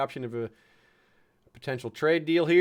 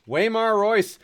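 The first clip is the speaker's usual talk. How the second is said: name burst out high and loud in surprise; loud delighted announcement of the name; excited exclaim; 9 semitones higher, 7 dB louder, slower than usual. Real, not acted. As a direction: call the name out, amused and surprised. Surprised reading of a character name.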